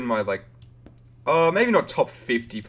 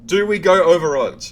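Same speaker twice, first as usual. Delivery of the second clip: excited; 7 semitones higher, 11 dB louder than usual. Real, not acted. Excited streamer asking chat.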